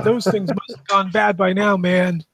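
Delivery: high, loud regretful freak-out; freaked-out tripper. Acted. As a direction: play the character panicking on mushrooms. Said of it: "like, a super crazy, like, freak out".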